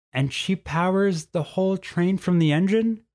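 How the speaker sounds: put-on a kid leaning in to ask; curious boy. A narrator's reading. Boy asking Tilly about the engine, curious.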